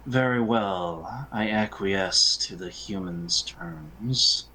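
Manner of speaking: slow, haughty, reluctant agreement; sighing condescension. Acted. Elf giving in to the human's terms, sighing and haughty. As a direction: concede slowly with weary disdain. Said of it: "Just sort of sighs and says".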